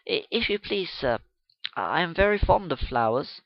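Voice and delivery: hesitant, blushing answer; shy girl. Acted. Young schoolgirl timidly answering the gentleman, shy. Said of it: "Sissy blushed and stood up".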